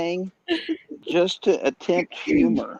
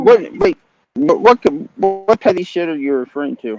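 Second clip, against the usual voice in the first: sharp raised voice; loud indignant; 6 dB louder than usual. Real, not acted. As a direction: cut in loudly. Upset question.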